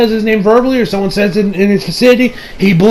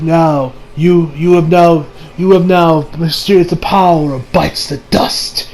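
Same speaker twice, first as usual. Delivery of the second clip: lower, measured villain voice; villain's explanation; 4 semitones lower, slower than usual. Retold or imitated. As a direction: explain your power slowly and low.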